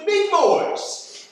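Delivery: amused by the bureaucracy; laughing. Acted. Agent explaining slow signal routing to captives, laughing.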